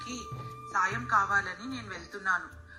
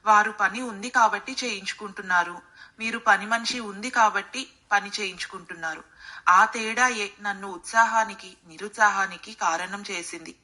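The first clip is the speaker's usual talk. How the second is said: calm, lower-pitched maid's voice; 3 semitones lower than usual. A narrator's reading. Maid explaining to employer why she feels different there, calm. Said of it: "ప్రశాంతంగా సమాధానం ఇచ్చింది".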